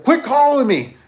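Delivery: put-on annoyed kid voice. Kid telling callers to stop, high mock whine.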